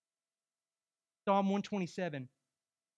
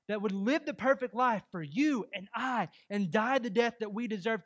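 impassioned sermon delivery, pitched up; raised, urgent pulpit voice; emphatic preaching; 4 semitones higher, 5 dB louder than usual. Real, not acted. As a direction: preach it with conviction, building on "Look at that love". Preaching with rising force.

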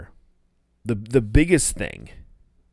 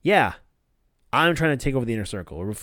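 mock-sarcastic retelling, pitch up, bigger yeah; lightly imitating a sarcastic confession. The speaker mocking Max with a fake confession, sarcastic. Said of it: "Sammy goes sarcastic".

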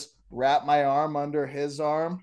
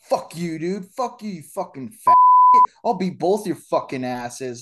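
confident; 3 semitones higher, 8 dB louder than usual. Retold or imitated. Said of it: "he was confident. He's like".

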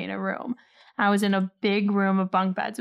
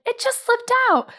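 embarrassed; 13 semitones higher than usual. Retold or imitated. Quoting embarrassed contestant.

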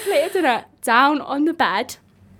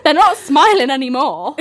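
laughing. Real, not acted. Laughing at squished food.

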